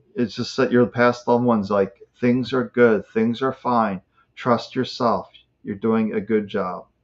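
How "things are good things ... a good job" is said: ordinary talk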